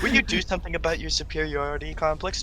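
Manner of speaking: lightly voiced superior snob; mock snob. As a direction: needle them in a snooty voice. Player mocks in snobby voice.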